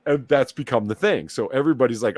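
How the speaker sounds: normal talking voice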